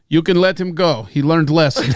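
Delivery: lightly voiced Russian accent; Putin in Russian accent. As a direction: put on a comic Russian accent. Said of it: "you can do a Russian accent".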